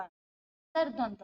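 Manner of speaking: अंतर्द्वंद said slowly and carefully, every syllable clear; slow spelled-out word. Shown as a demonstration. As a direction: dwell on अंतर्द्वंद to show its spelling. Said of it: "द्वंद यानी ये र दा के ऊपर आएगा".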